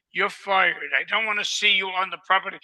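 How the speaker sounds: loud, fast angry boss; retold firing. Employer firing the groundskeeper, loud and fast. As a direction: bark it like a furious employer firing someone. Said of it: "Mister Getty said".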